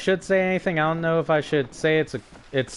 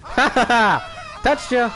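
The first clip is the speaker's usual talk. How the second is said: gleeful laughing; 8 semitones higher than usual. Real, not acted. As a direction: laugh while teasing. Tagging another player.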